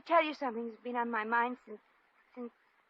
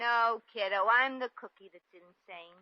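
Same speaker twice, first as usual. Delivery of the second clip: put-on slangy American accent, slowing at the end; dropped-pretence American accent; slower than usual. Shop girl confessing her charade to the couple, American accent. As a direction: drop the posh act into American slang. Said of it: "your accent".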